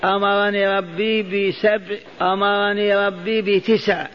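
ordinary talk

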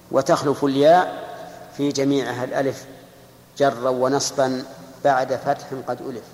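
recited verse. Shown as a demonstration. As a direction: chant the line deliberately, drawing it out. Teacher quotes the Alfiyya verse.

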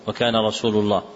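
"رسول" said with a final u, "Rasūlu"; with damma. Shown as a demonstration. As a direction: end "رسول" on a clear damma. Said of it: "أصلحوها بالضم". ("رسولُ" بالضم واضحاً)

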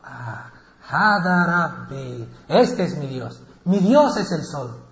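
drawn out and amazed; slow awed proclamation. Acted. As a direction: marvel at the sun slowly. Ibrahim proclama el sol. (proclamación lenta y asombrada)

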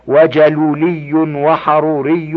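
وجلولي وحروري as jaluli and haruri; dropped alif and hamza. Shown as a demonstration. Reader lists irregular nisba forms, وجلولي وحروري without alif or hamza. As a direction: end وجلولي وحروري straight in "-li" and "-ri". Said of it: "بحذف الألف".

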